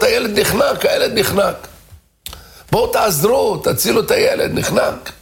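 high frantic cry for help; panicked screaming. Retold or imitated. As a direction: yell it as if the child is choking. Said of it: "התחילה לצרוח צרחות". (צעקות היסטריות לעזרה)

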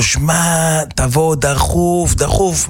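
גבוה ואיטי, מושך את דחוף; מזעיק רופא במסדרון בבהילות; קריאה דחופה. Retold or imitated. קורא לרופא בבהילות. (דחוף ונרגש)

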